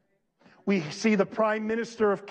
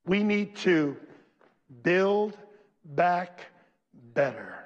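mocking quote; slower than usual. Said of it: "what that young lady said".

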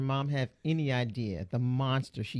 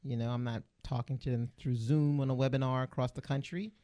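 radio voice. Acted. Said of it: "Why are you talking like this?".

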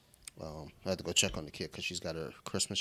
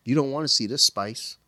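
put-on higher, louder kid voice; imitating six-year-old; 5 semitones higher, 6 dB louder than usual. Dad imitating his six-year-old daughter, higher and louder. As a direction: play the tough little girl. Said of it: "she was like".

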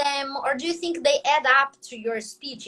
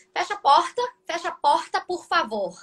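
another Brazilian accent; 3 semitones higher than usual. Shown as a demonstration. Teacher contrasting Brazilian accents for a friend, another regional Brazilian accent. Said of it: "Outro sotaque, eles falam".

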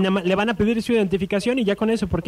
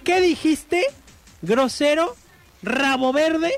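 higher-pitched indignant questions, pausing between each; mock angry granny; 5 semitones higher, much slower than usual. Angry granny turns on the drunk, mock indignation. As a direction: play an offended grandmother, mildly outraged. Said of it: "bien enojada".

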